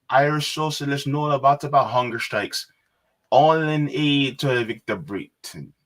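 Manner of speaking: attempted Irish lilt, slightly off; bad Irish accent. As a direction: have a clumsy go at an Irish accent. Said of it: "tried to do an Irish accent".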